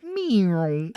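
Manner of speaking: squeaky meow through laughter; giggly cat-like yelp; laughing mock yelp. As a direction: imitate a silly yelp while cracking up. Imitating robot guy's yelp.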